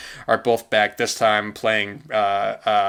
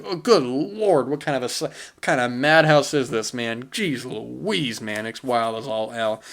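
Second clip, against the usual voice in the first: pitched-up good-lord, sinking at the end; mock dismay. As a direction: gasp at the madhouse, then trail off. Mock dismay at madhouse film.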